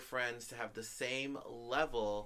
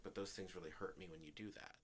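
retold quiet hurt, very soft; calm and hurt; 3 semitones lower, 11 dB quieter than usual. Speaker telling the ex what hurt them, calm and hurt. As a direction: say it softly, holding the hurt in. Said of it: "in a very calm and hurt voice".

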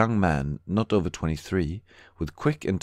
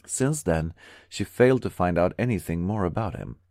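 usual speaking voice

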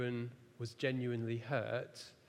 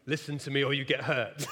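lecturing moral; 6 dB louder, faster than usual. Retold or imitated. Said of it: "launching into the moral of".

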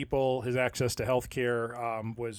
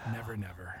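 breathy whispered fade-out; whispering; 5 semitones lower, 13 dB quieter than usual. Acted. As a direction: whisper it to yourself in despair. Trailing whispered despair.

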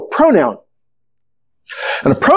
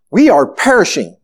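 measured, unhurried plea with little alarm; calm reading. Acted. Preacher reading the disciples' plea from scripture, calm. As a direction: read it evenly, in a calm voice. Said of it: "read in a calm voice".

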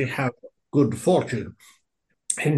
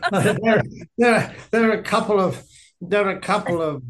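Barry Humphries voice; 6 semitones higher than usual. Retold or imitated. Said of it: "You're sounding like Barry Humphries now".

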